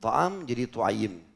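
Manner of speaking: slow, careful "Ta'am" then "tu'ayyim"; very slow Arabic teaching demo of "tu'ayyim"; Arabic diminutive. Shown as a demonstration. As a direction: spell out "Ta'am jadi tu'ayyim" slowly, each word distinct. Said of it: "dipakai ismu tasgir namanya".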